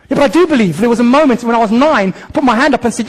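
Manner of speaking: a careless believer bragging about a moment at age nine; mock casual believer. Mock nominal believer voiced.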